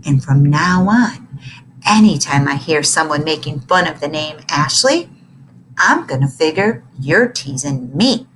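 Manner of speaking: the bully's low threat; menacing bully. A narrator's reading. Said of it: "lips twisted into a sneer".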